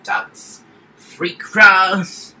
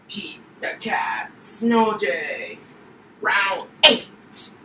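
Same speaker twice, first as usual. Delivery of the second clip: booming fighting game announcer; 3 semitones higher, 3 dB louder, slower than usual. Pretend. Kid announces game rounds.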